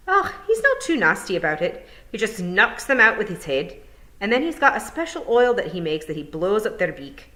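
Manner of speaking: cheerful wee Scottish pixie. Acted. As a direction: Feegle chatting away. Feegle describes Hamish.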